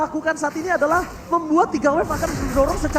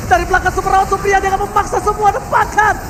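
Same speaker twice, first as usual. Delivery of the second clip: excited; 4 semitones higher, 5 dB louder than usual. Real, not acted. Caster builds over teamfight.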